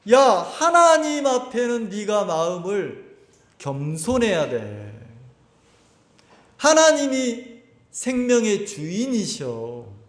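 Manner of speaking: put-on slow, patient words to a child; a lightly voiced parent, teaching slowly and gently; a hint of a tender parent instructing a little one; gentle teaching.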